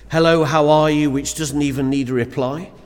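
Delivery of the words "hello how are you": breezy passing greeting. Retold or imitated. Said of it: "that exchange of".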